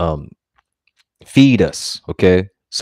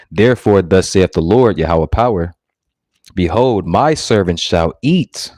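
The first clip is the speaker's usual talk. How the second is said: slow, weighty King James reading; measured preacher's scripture reading; solemn scripture reading. Acted. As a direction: read the verse like holy writ. Reading scripture aloud in sermon.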